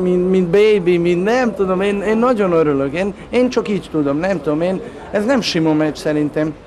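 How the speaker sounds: usual speaking voice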